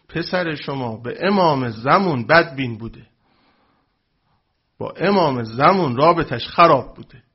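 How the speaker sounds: put-on slow, lightly Yazdi-accented cleric; a hint of Yazdi accent, measured and slow. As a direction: imitate the sweet Yazdi accent of the old cleric, slowly. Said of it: "با اون لهجهٔ شیرین یزدی".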